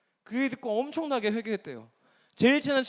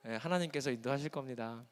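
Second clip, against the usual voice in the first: low, soft, unruffled answer; calm pious reply; 8 semitones lower, 10 dB quieter than usual. Acted. Nephew deflecting uncle's career questions, calm and pious. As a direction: answer serenely, dropping pitch and volume.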